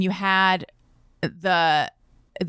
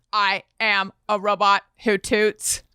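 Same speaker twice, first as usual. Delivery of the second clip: flat robot voice; lightly imitated kid robot. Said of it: "he's like".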